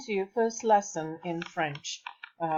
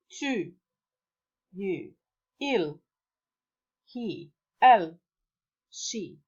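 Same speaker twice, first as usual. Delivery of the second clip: repeat-after-me drill; 2 semitones lower, slower than usual. Shown as a demonstration. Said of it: "Please repeat after the".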